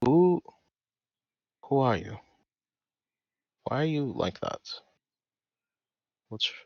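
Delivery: whispered in character. Whispering in character to a dryad in the corner. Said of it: "try to whisper to the character".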